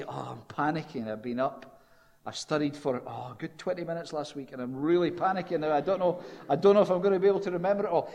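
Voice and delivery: a student's half-hearted panic, rushing at the end; mock panic. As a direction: play a flustered pupil gabbling excuses. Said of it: "imagine going in to speak to your teacher".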